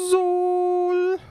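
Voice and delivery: high loud yell of the word backwards; high shout backwards. Acted. Host yells the start word backwards as a joke. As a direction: shout it like a goofy echo.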